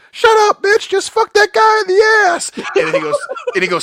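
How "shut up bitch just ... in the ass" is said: high, loud shouted order; gruff guy barking. Retold or imitated. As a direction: snap back like a thug who won't hear another word. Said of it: "And the guy just goes".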